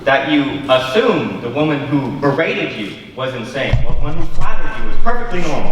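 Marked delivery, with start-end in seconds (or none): 3.8-5.7 louder and fast, pressing the point; heated retort. Acted. Guest hits back at the host in a heated debate, fast and loud. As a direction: drive the argument home hard.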